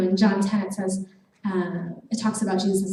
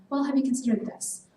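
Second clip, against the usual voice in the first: slightly softer, higher, tentative offering; gentler suggestion; 4 semitones higher, 4 dB quieter than usual. Acted. God offering another option to someone deciding, a gentle nudge. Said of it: "it's a little more gentler".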